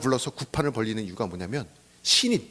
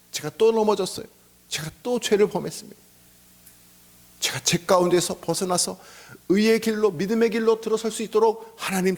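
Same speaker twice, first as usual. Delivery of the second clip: higher, pleading confession; raised, earnest voice of repentance; confessing prayer; 6 semitones higher than usual. Acted. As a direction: plead with God after falling short. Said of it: "라고 고백하는 게".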